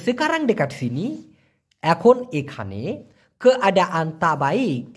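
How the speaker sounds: Malay phrase said slowly, word by word; slow dictation. Shown as a demonstration. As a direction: spell it out slowly for learners. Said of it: "teacher repeats Malay phrase slowly".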